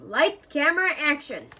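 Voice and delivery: showy director announcing the take; director's call. Acted. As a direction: call out to start the scene. Director calls start of a scene.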